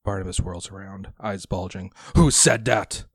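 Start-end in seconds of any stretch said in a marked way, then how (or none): 2.1-3.0 loud, high startled cry; startled shout. Acted. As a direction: jump and shout in alarm. Barnabas whirls around startled.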